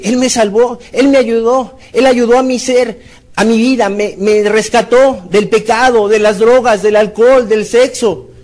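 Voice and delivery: a believer proclaiming his rescue; fervent believer. Retold or imitated. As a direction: declare it with gratitude. Voicing a grateful believer.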